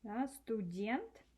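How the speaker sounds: slow, clear студент; студент drawn out slowly, each sound clear; slow model word. Shown as a demonstration. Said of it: "That's how you spell it".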